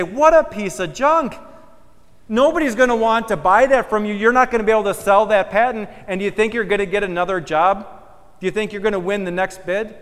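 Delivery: mocking scorn. Onlookers jeering at the builder's spoiled cornerstone, loud scorn. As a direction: sneer at the ruined stone.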